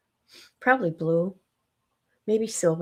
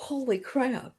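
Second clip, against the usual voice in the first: yawning; 4 semitones higher, 8 dB quieter, slower than usual. Real, not acted. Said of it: "I can't quit yawning".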